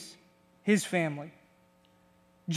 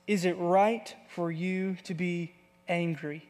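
quiet questioning God; 3 semitones lower, 6 dB quieter than usual. Acted. God's question quoted.

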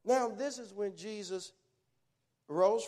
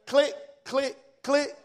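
imitated click; 3 semitones higher, 7 dB louder, slower than usual. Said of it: "when you turn it went click".

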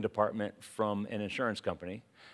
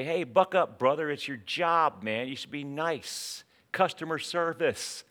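mock scolding; 3 semitones higher than usual. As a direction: pretend telling-off, pitched up a little. Voicing a scolding to grouchy cashier.

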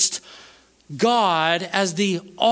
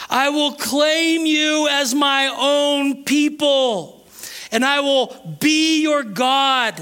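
raised, measured scripture proclamation; forceful preaching; 6 semitones higher, 3 dB louder than usual. Acted. Preacher reads God's promise of land and belonging, forceful. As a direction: proclaim each promise, slowing on key words.

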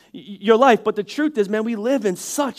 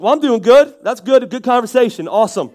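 mock offended; 4 dB louder than usual. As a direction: answer the snub with loud fake cheer. Acted huffy reply to being ignored.

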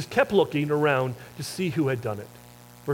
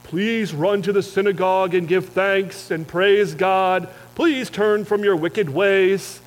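preachy Jesus; 3 semitones higher, 4 dB louder, slower than usual. Pretend. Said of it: "He doesn't say".

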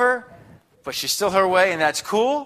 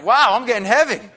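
excited wow; 7 semitones higher, 5 dB louder than usual. Retold or imitated. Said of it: "That's something like".

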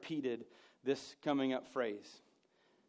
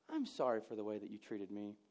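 sarcastic; 6 semitones lower, 8 dB quieter than usual. Shown as a demonstration. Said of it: "a sarcastic idiot".

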